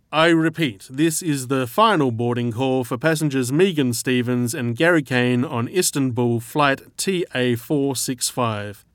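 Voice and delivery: airport PA announcement, echoing; flat echoey pa page. Acted. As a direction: read it like a gate announcement over speakers. Airport boarding call announcement.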